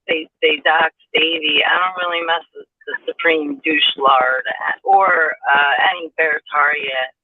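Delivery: boxy, hollow phone sound; tin can sound. Real, not acted. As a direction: voice through a tinny mic. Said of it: "You sound like you're in a tin can".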